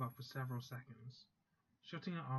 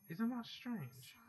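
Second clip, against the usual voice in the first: slow, drawn-out, much higher puzzled question; puzzled surprise; 9 semitones higher, much slower than usual. Acted. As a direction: stretch it out, baffled at the clock. Waking up, noticing the late time.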